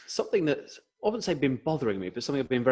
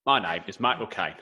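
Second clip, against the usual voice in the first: slow Cockney Michael Caine drawl; 3 semitones lower than usual. Pretend. Host doing Michael Caine on request, slow London accent.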